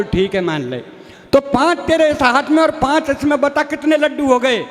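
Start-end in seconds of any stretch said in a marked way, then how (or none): 0.0-0.8 put-on dim village boy. Boy protests to his teacher in a deep rustic voice.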